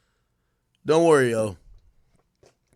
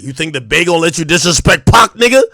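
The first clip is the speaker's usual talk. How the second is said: quoting fans; 9 dB louder than usual. Retold or imitated. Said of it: "that line that the rapper like".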